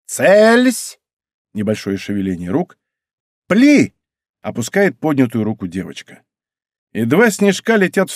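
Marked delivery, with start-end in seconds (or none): 0.1-1.0 high, drawn-out military command; ringing shout. A narrator's reading. Girl commanding a snowball volley, ringing shout. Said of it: "девочка звонко прокричала". 3.5-3.9 short, loud, high command; ringing shout. A narrator's reading. Girl orders the snowball volley, ringing shout. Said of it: "девочка звонко прокричала".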